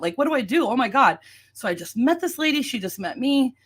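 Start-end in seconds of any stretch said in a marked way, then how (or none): 0.2-1.2 mild retold panic, lifted pitch; retold freaking out. Retelling finding the agent bleeding, mildly panicked. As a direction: replay a moment of freaking out. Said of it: "like, freaking out".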